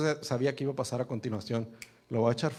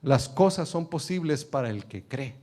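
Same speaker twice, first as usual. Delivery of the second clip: louder "Todas", then firm; emphatic proclamation; 3 semitones higher, 5 dB louder, slower than usual. Acted. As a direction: declare it with force. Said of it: "y luego le dice". (Jesús proclamando con fuerza)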